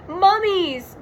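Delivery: high, loud scared yell; Shaggy yell. Acted. Shaggy sees the mummies, frightened high yell. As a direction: shout the word in alarm. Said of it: "yelled Shaggy".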